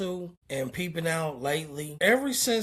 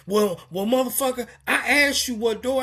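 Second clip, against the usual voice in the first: retold loud retort; 4 semitones higher, 3 dB louder, faster than usual. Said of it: "we're loud".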